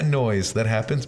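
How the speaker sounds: rough, worn-out voice; hoarse voice. Real, not acted. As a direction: talk through a hoarse throat. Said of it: "I wish my voice wasn't fucked".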